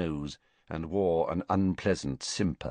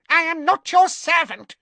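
very high, louder squeak of protest; 6 dB louder than usual. A narrator's reading. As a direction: squeal it back defiantly. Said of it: "he squeaked".

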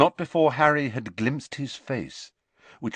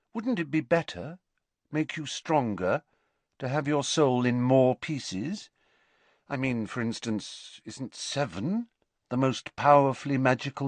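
lightly voiced, eager questioner, raised pitch; probing young pupil; 5 semitones higher than usual. Pupil asks professor about seven pieces, lightly acted curiosity. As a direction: press on with careful, polite curiosity. Riddle probes Slughorn, acted.

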